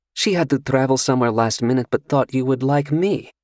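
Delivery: coy and sure of herself; seductive stranger. Acted. Seductive stranger asks Carter about his drink, coy. Female character voice.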